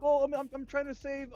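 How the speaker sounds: high, loud whiny impression of mom; mock mom voice. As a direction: squeak it out like a confused mom. Son mimics his mom's question.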